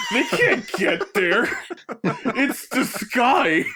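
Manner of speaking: put-on slow, giggling drunken logic; tipsy, laughing scorn at a song lyric; drunk rant. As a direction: argue with the sky through giggles. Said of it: "and I go".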